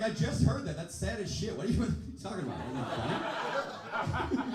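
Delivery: high, loud exasperated retort; mock appalled girlfriend. Girlfriend unimpressed by the overheard joke, mock appalled. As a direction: pitch it up, indignant.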